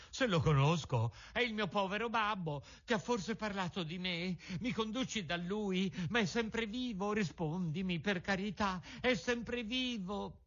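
high, urgent, begging questions; anxious pleading puppet. A narrator's reading. Pinocchio begging the pigeon for news of Geppetto, high and anxious. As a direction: plead for news of your father.

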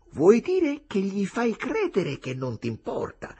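loud, high impatient question. A narrator's reading. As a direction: press for the answer, incredulous. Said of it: "chiese Jim con impazienza". (domanda impaziente)

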